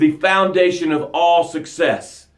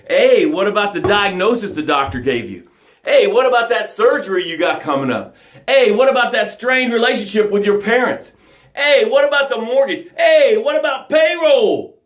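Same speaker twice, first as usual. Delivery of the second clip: Life taunting; 4 semitones higher than usual. Retold or imitated. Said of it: "Life said".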